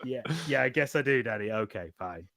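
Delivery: put-on grudging child. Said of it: "child's grudging reply".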